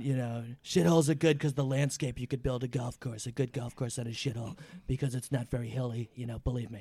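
talking while eating chips; crunching chips. Real, not acted. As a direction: mouth full of chips. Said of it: "I'm eating chips on the fucking microphone".

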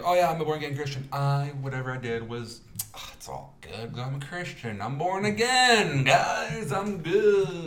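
high, loud sarcastic parody of a smug convert; mocking convert voice. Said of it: "they think, like".

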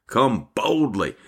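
slow, drawn-out BOLDLY; emphatic. Real, not acted. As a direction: stretch out BOLDLY as an exhortation. Emphatic exhortation to come boldly.

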